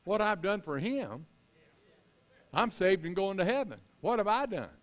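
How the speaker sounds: high-pitched, mildly incredulous questioning; incredulous self-mockery. Real, not acted. Preacher ridiculing his complaint to God, incredulous. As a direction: scoff at your own complaint.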